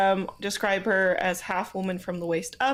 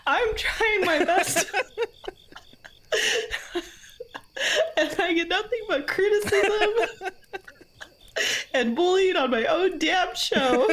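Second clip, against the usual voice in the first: mock whining; 9 semitones higher than usual. Mock self-pity after teasing.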